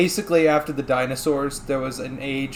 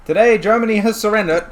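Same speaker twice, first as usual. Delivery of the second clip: 1920s newsreel announcer, higher and louder; old radio announcer; 8 semitones higher, 6 dB louder than usual. Pretend. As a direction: announce like a wartime radio host. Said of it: "You're not a fucking pipe radio host".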